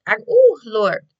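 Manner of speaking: a flash of sass she holds back; real burst. Real, not acted. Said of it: "my mouth is slick".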